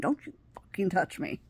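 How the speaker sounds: retold scream held to a whisper; whispered mock scream. Warning off a man behind her, whispered mock scream. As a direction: scream it under your breath, voiceless. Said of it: "I turned around and I screamed".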